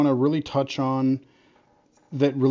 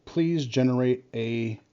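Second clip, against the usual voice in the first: dictating. Real, not acted. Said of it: "I'm hoping it'll let me dictate this".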